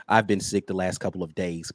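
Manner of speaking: ordinary talk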